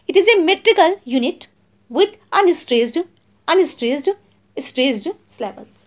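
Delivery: each word spaced out for notes; slow, clear classroom dictation. Shown as a demonstration. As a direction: read it out slowly so students can write. Dictates definition slowly.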